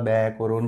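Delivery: "ব্যাকরণ" as bæ-koron, slow; open bæ vowel. Shown as a demonstration. Teacher gives a familiar example, "ব্যাকরণ" as bæ-koron. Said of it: "সব তোমরা ব্যা উচ্চারণ করবা".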